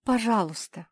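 a high, begging «Пожалуйста!»; pleading. Acted. Cinderella begs Mafi again, pleading. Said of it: "взмолилась Золушка".

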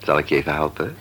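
put-on doctor whispering gently to the sick girl. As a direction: hush it so you don't startle her.

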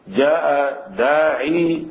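داعي drawn out slowly with long final ee; final ya pronounced. Shown as a demonstration. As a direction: keep the ي fully sounded in داعي. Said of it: "تثبتها ب-، بالياء".

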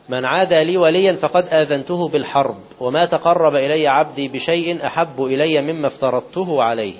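slow measured recitation of the sacred text; solemn slow quoting of scripture; hadith recitation. Acted. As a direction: recite it slowly, weighing each word.

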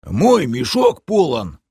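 lightly voiced lumbering report; brief report. A narrator's reading. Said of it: "коротко доложил Бом".

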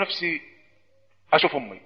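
low, very soft last wish; condemned man's plea. Retold or imitated. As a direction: make a quiet final request before the gallows. (رجاء أخير بصوت واطي جدًا)

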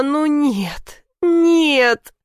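rising tearful protest, high final no; upset crying out. Acted. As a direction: break into a near-sob of dismay. Daughter learns mother gave money.

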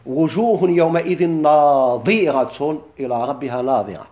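slow, measured chant of the verse; تلاوة قرآنية بطيئة; Quranic recitation. Shown as a demonstration. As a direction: recite it like a reciter, letting each word ring. Teacher quotes a Quran verse.

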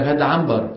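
عنبر said as عمبر, n turned to m before b; nasal m for n. Retold or imitated. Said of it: "بيقول لك". (انطق عنبر بالميم: عمبر)

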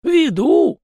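high, loud puzzled echo. A narrator's reading. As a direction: repeat the word, baffled. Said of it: "озадаченно уточнил мужичок".

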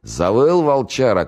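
slow, high, drawn-out jeer; shouted taunt. A narrator's reading. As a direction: call out mockingly, stretching the howl. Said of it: "крикнул из домика связной".

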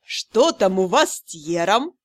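low, slow and searching; heartfelt. A narrator's reading. Curator probing the heroine, heartfelt and low. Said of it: "и проникновенно так".

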